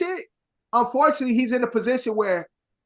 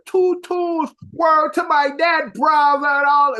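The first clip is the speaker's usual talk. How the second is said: lightly exaggerated Toronto slang accent; mock Toronto accent; 4 semitones higher than usual. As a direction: mimic a Toronto accent with distaste. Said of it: "I hate the way they talk in Toronto".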